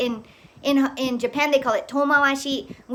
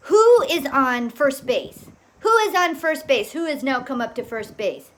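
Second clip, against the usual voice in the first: baseball announcer imitation; 4 dB louder than usual. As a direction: call it like a mock ballgame announcer. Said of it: "talking like they're the announcers".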